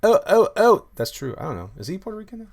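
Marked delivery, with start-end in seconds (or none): 0.0-0.9 loud, high "oh" cries; whooping exclamation, far above talking level; excited shout. Real, not acted. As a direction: burst out with high, ringing ohs. Reacting with a shout to chat.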